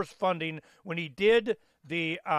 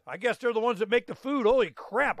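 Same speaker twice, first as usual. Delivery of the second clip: higher, mock amazed realization; playful mock astonishment; mock surprise; 5 semitones higher than usual. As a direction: act out the dawning shock. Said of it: "you go".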